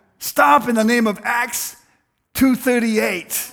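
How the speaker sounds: stern loud shout. Telling a story, quoting a woman confronting a burglar: retelling a loud shout. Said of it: "she said with a loud voice".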